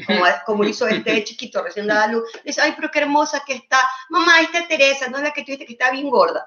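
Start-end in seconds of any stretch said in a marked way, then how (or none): 2.6-6.5 put-on high-pitched innocent kid's voice; imitating a small child talking to mother; tactless child. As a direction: blurt it out like an indiscreet child. Imprudent child blurts out secret.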